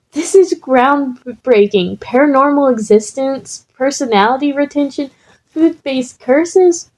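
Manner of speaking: excited. Acted. Excited Izuku voiced in story.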